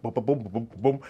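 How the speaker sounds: rhythmic spoken booms; imitated walking thumps. Storyteller mimics walking loaded with camera gear, rhythmic booms. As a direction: sound out each heavy step. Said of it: "I'm just walking like".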